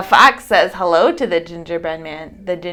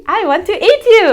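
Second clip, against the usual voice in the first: hungry horse; 13 semitones higher, 9 dB louder, faster than usual. A narrator's reading. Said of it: "says the horse".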